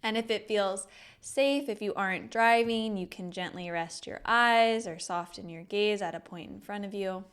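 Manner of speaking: measured meditation guide with long pauses; guided meditation. Acted. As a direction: lead them gently through each breath, drawing out the words. Leads a breathing meditation.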